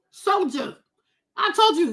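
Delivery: ordinary talk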